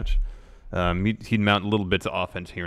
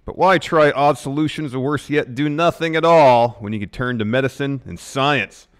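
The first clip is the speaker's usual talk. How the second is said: emphatic sponsor pitch; ad read; 4 semitones higher, 3 dB louder than usual. Real, not acted. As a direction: drive home the selling points. Co-host continues sponsor ad.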